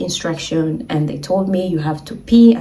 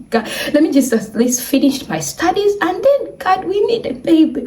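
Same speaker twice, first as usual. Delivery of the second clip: pleading prayer; 9 semitones higher than usual. Retold or imitated. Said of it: "I started the prayers".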